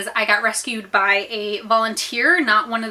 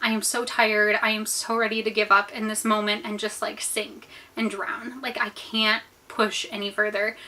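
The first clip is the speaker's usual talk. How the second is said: softer, understated retold plea; desperate prayer; 7 dB quieter than usual. Drowning swimmer praying to God, subdued desperation. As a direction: plead quietly, worn out and near giving up. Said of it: "I was praying to God".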